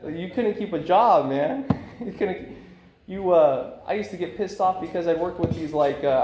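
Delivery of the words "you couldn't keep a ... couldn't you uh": louder, higher, with laughter breaking in; cracking up at his old self; laughing agreement. Retold or imitated. Recalling past troubles with his sponsor, laughing louder. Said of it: "I was like".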